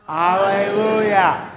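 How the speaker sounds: loud, slow, drawn-out shout; alleluia cheer. Shown as a demonstration. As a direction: lead everyone in a big cheer. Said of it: "we say a special cheer".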